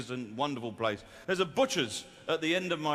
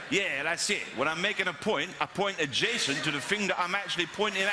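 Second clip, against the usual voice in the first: put-on young West London speaker; 3 semitones higher than usual. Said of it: "Where people talk like that".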